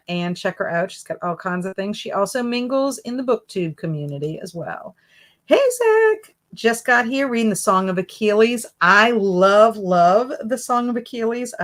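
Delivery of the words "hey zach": excited greeting. Real, not acted. Greeting a viewer in live chat.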